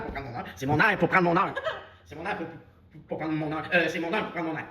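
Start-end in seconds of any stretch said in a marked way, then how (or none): 0.6-1.5 laughing. Acted. Cracking up over repeated line.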